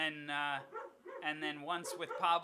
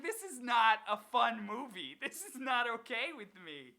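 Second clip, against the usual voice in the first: higher, lightly voiced mock complaint; mock indignant; 6 semitones higher, 4 dB louder than usual. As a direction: act out a half-joking protest. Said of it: "I was like".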